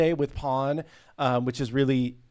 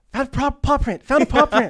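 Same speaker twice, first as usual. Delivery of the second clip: put-on squealing, very high, excited little-kid voice; 12 semitones higher, 6 dB louder than usual. Retelling how a daughter reacts to Blue's Clues: imitating excited daughter. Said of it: "She's like".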